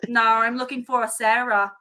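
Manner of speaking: imitated British housekeeper; lightly put-on British accent, matter-of-fact. Retelling housekeeper seeking another guest, British accent. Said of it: "I'm loving your British accent".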